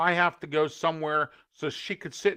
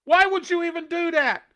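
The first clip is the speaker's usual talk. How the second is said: high, loud outraged question; real disbelief at the owners; incredulous anger; 10 semitones higher, 4 dB louder than usual. Real, not acted. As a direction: demand an answer, exasperated. Ranting at careless owners.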